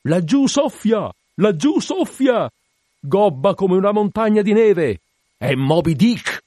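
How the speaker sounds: high, loud, long-drawn whale cry; slow, soaring lookout's yell; gull-like yell. A narrator's reading. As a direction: shriek it from the masthead like a gull. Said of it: "scagliò nell'aria un urlo come di gabbiano".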